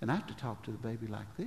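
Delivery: soft, quick, very softened hushing voice.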